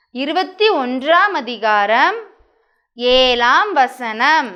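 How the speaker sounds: slow, measured recitation with drawn-out phrase endings; verse read-aloud. Shown as a demonstration. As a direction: read it out phrase by phrase for children to follow. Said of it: "வாசிச்சு காமிக்கிறேன்". (குழந்தைகளுக்கு நிறுத்தி நிதானமாக வசனம் வாசித்தல்)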